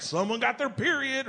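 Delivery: high, mock redneck twang; redneck accent. Wife reacts to the gunshot, redneck accent. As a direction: put on a redneck wife's accent. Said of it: "she hates this accent".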